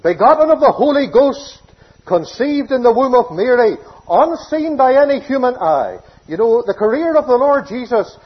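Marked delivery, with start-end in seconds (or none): 0.0-6.0 fervent proclamation. Real, not acted. Preacher rising to a climax.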